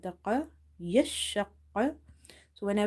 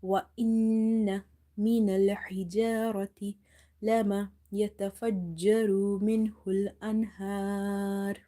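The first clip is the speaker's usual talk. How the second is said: Quran recitation; much faster than usual. Shown as a demonstration. Recites the verse for pupils.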